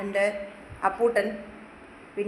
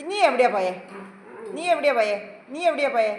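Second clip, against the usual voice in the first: mock scolding; 3 dB louder, faster than usual. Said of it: "വഴക്ക് പറയുമ്പോൾ".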